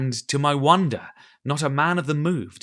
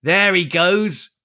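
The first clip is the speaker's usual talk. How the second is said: slow, higher, louder curse; angry oath; 6 semitones higher, 7 dB louder, much slower than usual. A narrator's reading. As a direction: growl the oath. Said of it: "said Morgan with an oath".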